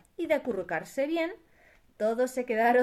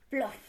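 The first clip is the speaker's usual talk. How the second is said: splash sound; 4 dB quieter than usual. A narrator's reading. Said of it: "se cayó al río con un gran".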